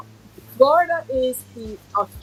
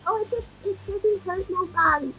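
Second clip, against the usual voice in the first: mock snake lover; 9 semitones higher, 3 dB quieter than usual. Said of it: "mocking snake owner friend".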